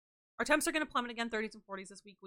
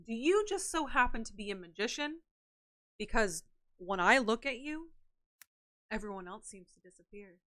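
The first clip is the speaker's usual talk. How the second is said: flirty pickup line. Pretend. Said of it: "corny pickup lines".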